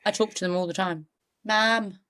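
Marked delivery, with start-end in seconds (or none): 1.4-2.0 "Ma'am" in a Geordie accent; Geordie-style "Ma'am", pronounced as "mam"; Geordie accent demo. Shown as a demonstration. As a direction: say "Ma'am" like someone from Newcastle. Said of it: "How does the Geordie accent go?".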